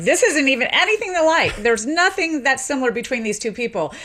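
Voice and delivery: a retold expert firmly insisting on the stand; emphatic expert witness. Linguist in court rejecting the accent match, emphatic. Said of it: "a linguist got on the stand and was like".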